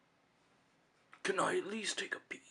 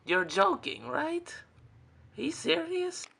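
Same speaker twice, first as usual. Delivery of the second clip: much higher, loud disbelieving cry; shocked outrage; 13 semitones higher, 8 dB louder than usual. Acted. Betrayed friend learns the praise was a lie, shrieking in disbelief. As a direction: voice shooting up in disbelief.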